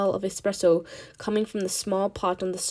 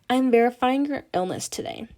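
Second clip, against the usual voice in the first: secretary voice; 4 semitones higher than usual. Acted. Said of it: "She turns on her secretary voice".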